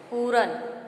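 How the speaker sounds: पूरन said with an extra vowel, poo-ran; wrong pronunciation. Shown as a demonstration. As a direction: give पूरन as two loose syllables. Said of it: "इसका सही उच्चारण होगा".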